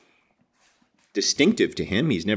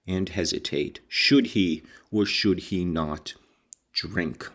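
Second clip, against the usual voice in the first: measured audiobook reading with weighted phrases; story narration. A narrator's reading. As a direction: read it out as literary narration, pausing for effect. Reads the novel aloud.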